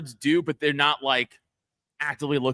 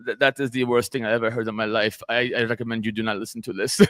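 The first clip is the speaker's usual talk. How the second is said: put-on German accent; 3 semitones lower than usual. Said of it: "in his German accent".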